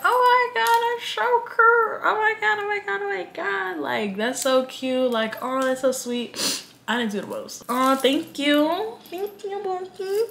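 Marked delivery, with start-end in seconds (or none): 0.0-6.6 gushing. Retold or imitated. Retelling how she gushed over a guy's flower offer, high squeal. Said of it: "Yo, why was I like". 7.7-10.2 high, slow, sugary thank you; gushing thanks. Retold or imitated. Thanking the guy for flowers, high and cooing.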